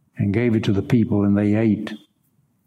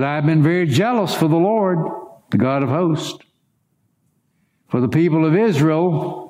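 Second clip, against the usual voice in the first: higher, self-pitying complaint, laying it on thick; whiny pity party; 3 semitones higher than usual. Acted. Elijah complaining to God, in a whiny self-pitying voice. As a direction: play the martyr, pleading his own case. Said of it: "this pity party had been going on".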